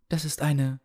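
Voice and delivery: lightly voiced old healer, eager; an old man's voice, starting hopefully. Healer restarts his sentence.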